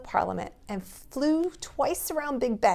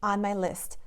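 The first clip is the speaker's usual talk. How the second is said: twinkly. Acted. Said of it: "with a twinkle in his eye".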